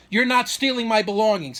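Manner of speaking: mild mock yell of outrage; retold scream. Father accusing son outside Cracker Barrel, retold scream. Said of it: "He's screaming".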